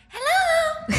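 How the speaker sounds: high, loud sing-song hello called across the yard; retold call from afar. Neighbor calling a greeting from the bushes, high and loud. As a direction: call it out like a cheery neighbor far off.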